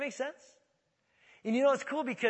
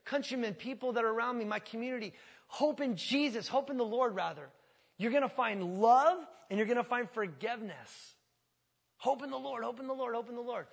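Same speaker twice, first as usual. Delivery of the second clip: raised, higher pleading call to the people; mild voiced call out; 5 semitones higher, 4 dB louder than usual. Psalmist crying out to his countrymen, raised pleading call. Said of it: "he's crying out to his countrymen".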